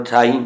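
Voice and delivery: ਠਾਈ ending in nasal ee; nasalised final vowel. Shown as a demonstration. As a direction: let the ee of ਠਾਈ ring in the nose. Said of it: "ਬਿਹਾਰੀ ਉੱਪਰ ਬਿੰਦੀ ਦਾ ਉਚਾਰਨ ਹੋਣਾ". (ਠਾਈ ਦੀ ਬਿਹਾਰੀ ਨਾਸਕੀ ਬੋਲੋ)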